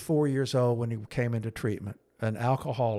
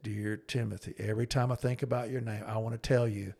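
deep voice; 6 dB quieter than usual. Retold or imitated. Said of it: "his voice was so deep".

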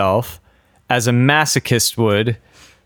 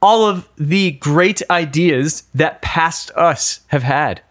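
silly voice; 2 semitones higher than usual. Pretend. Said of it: "I don't know why I'm doing this voice".

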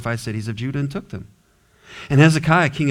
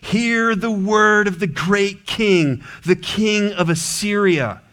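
slow, proclaiming herald, only mildly louder; proclaiming loudly; 5 semitones higher, slower than usual. Retold or imitated. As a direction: announce it like a mild mock royal proclamation. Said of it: "calls out in a loud voice".

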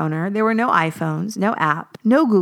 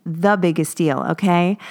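put-on tossed-off Valley Girl accent, teen style; 2 semitones lower than usual. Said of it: "insert Valley Girl accent".

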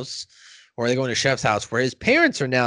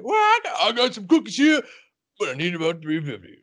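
put-on Girl Scout voice; 5 semitones higher than usual. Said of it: "the Girl Scout cookie said".

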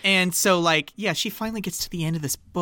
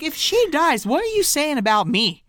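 upset student; 10 semitones higher than usual. Retold or imitated. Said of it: "she's like".

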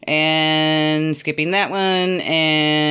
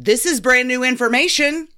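Phoebe quote; 6 semitones higher than usual. Retold or imitated. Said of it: "the Phoebe gif of".

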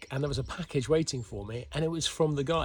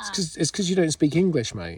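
teasing shout; 4 semitones higher, 6 dB louder than usual. Real, not acted. Teasing argument with the kid.

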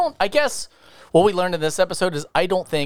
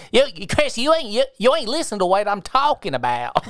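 imitating Sean; 3 semitones higher than usual. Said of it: "that's how he sounded".

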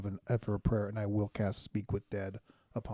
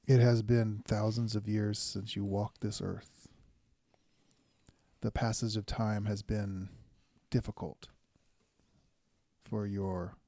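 slow, formal address to the dead; measured, ceremonial questioning with long pauses; solemn cleric in need of answers; 4 dB quieter than usual. Acted.

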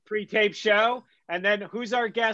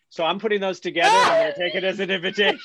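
excited; 5 dB louder, much faster than usual. Real, not acted. Jokingly inviting himself over.

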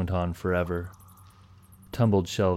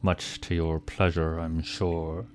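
snooty bored cat; slower than usual. Acted. Cat's sneering farewell.

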